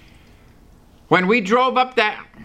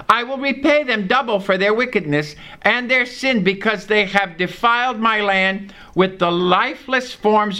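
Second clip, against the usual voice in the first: a slightly raised, measured Bible reading; scripture reading. Acted. Preacher reading Jeremiah to the congregation, measured and raised. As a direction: read the verse out to the congregation.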